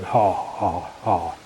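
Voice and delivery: spoken mock laugh with drawn-out "ah"; imitated stupid laugh. Mimicking people laughing outside, stupid mock laugh. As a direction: mimic a silly laugh, bringing out the vowel. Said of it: "doing this stupid laugh in the same way as if going".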